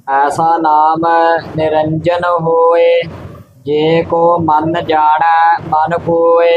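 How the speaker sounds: scripture recitation. Acted. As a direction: recite it evenly on one note.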